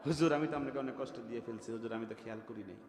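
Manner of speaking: put-on quick, embarrassed young man apologising; a young man caught out, hurrying his apology; flustered apology. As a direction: rush the apology, startled then sheepish. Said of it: "ঠেলা দেওয়ার পরে কয়".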